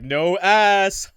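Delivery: put-on deadpan Gen Z kid; ironic zoomer. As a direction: say it like a smug zoomer. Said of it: "read this like a Gen Z".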